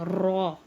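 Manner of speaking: "रॉ" said thick and full, not "रा" or "रे"; heavy raa. Shown as a demonstration. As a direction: make "रॉ" as heavy as you can. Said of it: "रॉ को मोटा पढ़ते हैं". ("रॉ" मोटा, रा या रे नहीं)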